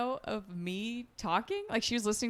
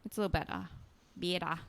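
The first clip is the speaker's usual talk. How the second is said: Australian "bettah" without the r; slightly softer imitation Australian; mock Australian accent; 2 semitones lower, 5 dB quieter, faster than usual. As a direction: try a bad Aussie accent. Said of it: "Sorry, that's horrible".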